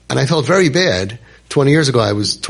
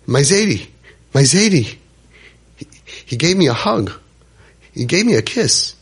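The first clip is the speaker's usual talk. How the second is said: put-on higher, breathless retelling of a boy's awe; overwhelmed excitement; 5 semitones higher than usual. Boy telling the rabbi about his grandfather's hug, excited. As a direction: relive the boy's stunned joy. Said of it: "He's freaking out".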